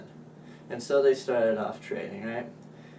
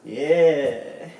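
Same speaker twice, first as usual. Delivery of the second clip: loud, hammed-up fight grunts; cartoon brawl yells; mock fight cries; 2 semitones higher, 6 dB louder, much slower than usual. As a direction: act out throwing punches. Acting out the fight.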